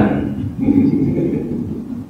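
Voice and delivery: low, breathy chuckle; quiet laugh at your own joke; soft chuckle. Real, not acted.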